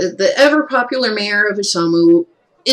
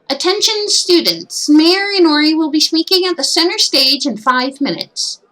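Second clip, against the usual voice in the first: PA announcement; 9 semitones higher than usual. Acted. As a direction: announce it like a school PA. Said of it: "the P A hums to life".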